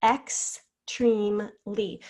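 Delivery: "Extremely" said slowly, each syllable pulled long; slow, stretched "Extremely". Shown as a demonstration. Teacher to class, slowly stretching "Extremely". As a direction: draw out "Extremely" for young spellers. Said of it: "Let's try extremely again".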